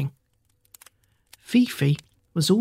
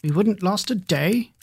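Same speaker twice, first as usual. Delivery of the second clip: clucking hens; 3 semitones higher than usual. Acted. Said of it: "clucked the hens".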